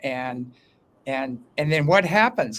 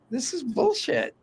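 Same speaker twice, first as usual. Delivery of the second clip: fed-up outburst; 10 semitones higher than usual. Retold or imitated. Voicing fed-up public.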